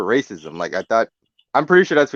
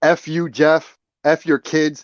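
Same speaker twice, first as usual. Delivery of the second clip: mock angry, heated ranting outburst; 5 semitones higher than usual. In a reenactment, the speaker plays Kevin cursing someone out: reenacting Kevin's angry yelling. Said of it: "I'm screaming, I'm yelling".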